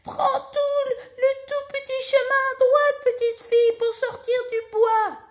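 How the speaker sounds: very high, squeaky shouting; tiny bear's cry. A narrator's reading. Tiny bear shouts directions to Goldilocks, squeaky cry. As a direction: pipe it out loudly as tiny bear. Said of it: "de sa toute petite voix".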